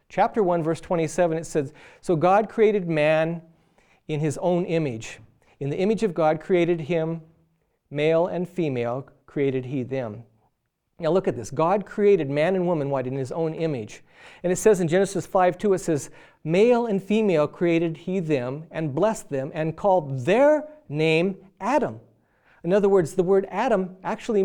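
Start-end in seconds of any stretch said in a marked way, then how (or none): 2.0-10.2 slow, measured Bible reading; scripture reading. Acted. Preacher reading Genesis to the congregation, slow and solemn. 16.4-22.0 slow, measured Bible reading; scripture reading. Acted. Preacher reading Genesis to the congregation, slow and solemn.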